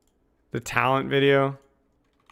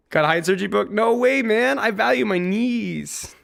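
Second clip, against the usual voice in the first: mock outrage; 7 semitones higher than usual. Mock-indignant reply about surgery.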